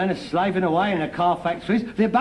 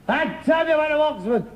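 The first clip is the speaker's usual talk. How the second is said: Scottish accent; 5 semitones higher than usual. Shown as a demonstration. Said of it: "I can't do a Scottish accent".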